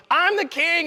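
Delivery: lightly voiced grand announcement; man claiming kingship. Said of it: "he goes".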